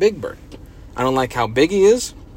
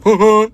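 louder mock honk "huh, huh"; imitating a truck honk; 4 semitones higher, 6 dB louder than usual. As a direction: toot like a cartoon truck. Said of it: "He honks when he".

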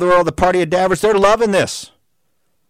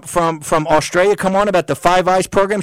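ordinary talk

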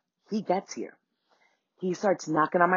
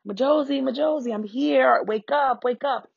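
calling through the mail slot; 7 semitones higher than usual. Retold or imitated. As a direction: call her name through the door, higher up.

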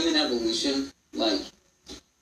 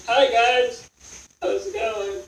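muffled far off; 11 semitones higher, 3 dB louder than usual. Retold or imitated. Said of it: "it sounds like I'm muffled".

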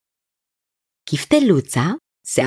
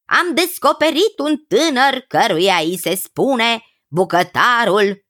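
lightly voiced enthusiastic cousin. Cousin praising a garlic cook to the king, lightly enthusiastic. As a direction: lightly act a cousin relishing his tale.

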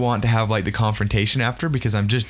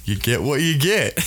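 calm. Retold or imitated. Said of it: "the most calm reply".

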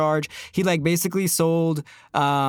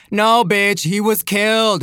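louder, indignant rebuttal; outraged correction; 2 semitones higher, 4 dB louder, slower than usual. Real, not acted. Correcting the article to viewers, louder and indignant. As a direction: slam the correction home.

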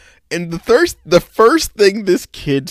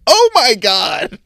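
slow shocked gasp; 7 semitones higher, 6 dB louder, much slower than usual. Retold or imitated. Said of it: "I'm like".

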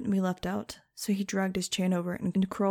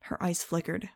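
usual speaking voice

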